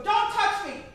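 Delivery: loud, high frantic yelling; panicked shout. Retold or imitated. Old man on bus steps shouting at the pushy crowd.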